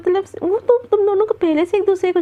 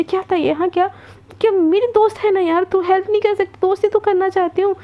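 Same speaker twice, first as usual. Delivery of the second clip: angry; 4 semitones higher than usual. Retold or imitated. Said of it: "गुस्से में रिद्धिमा बोलती".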